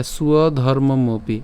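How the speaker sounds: স্বধর্মমপি slowly as "suo-dhormomopi"; slow, careful স্বধর্মমপি, every syllable clear; pronunciation demo. Shown as a demonstration. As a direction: sound out স্বধর্মমপি with a u-glide at the start. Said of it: "তাহলে উচ্চারণটা কেমন হবে".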